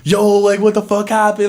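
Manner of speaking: loud, high-pitched hyped exclamation; mock astonished "yo"; amazed onlookers. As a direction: act out a crowd of stunned seniors. Acts out amazed seniors reacting.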